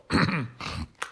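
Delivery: rough throat-clearing cough. Real, not acted. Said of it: "clears throat".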